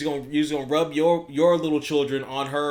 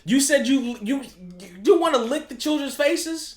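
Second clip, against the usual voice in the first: high, loud, slow mock shock; mock outrage; 10 semitones higher, 4 dB louder than usual. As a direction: feign horror at the words.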